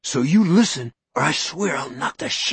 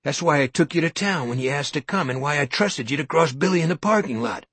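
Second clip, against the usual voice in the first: mocking, mock-admitting, rising; mock his joke theory; sarcastic, loud confession parody; biting sarcasm; 5 semitones higher, 3 dB louder than usual. Sarcastic mockery of Norton.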